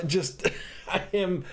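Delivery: helpless laugh breaking into the words; cracking up mid-sentence. Real, not acted. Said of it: "just laughing and just".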